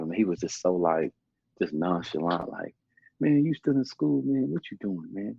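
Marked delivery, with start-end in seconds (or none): 3.2-5.4 a hint of a nagging father, higher; nagging dad. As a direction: mimic dad pestering about a career.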